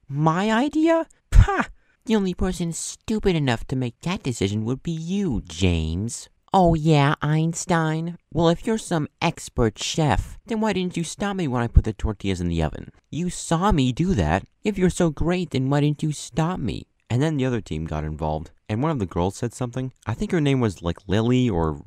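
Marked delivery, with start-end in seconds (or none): 0.1-6.3 loud, high scornful retort; mad retort. Retold or imitated. Gordon Ramsay snapping back at James, loud scornful anger. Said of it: "Gordon Ramsay got all mad". 6.5-16.9 loud, sarcastic heated comeback. Retold or imitated. James arguing with Gordon Ramsay, loud sarcastic anger.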